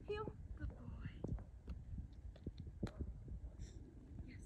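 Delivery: whispered, soft praise; whispering good boy to the dog on the leash. Shown as a demonstration. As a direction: breathe the praise so you don't excite him. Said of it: "higher tone, but still soft".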